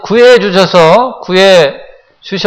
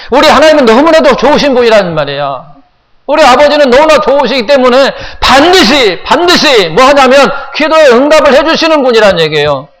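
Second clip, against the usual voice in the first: higher-pitched, insistent sermon delivery; fervent preaching; 5 semitones higher than usual. Real, not acted. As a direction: press each phrase home to the congregation. Preacher heightens his exhortation. (열정적으로 높여 외치는 설교)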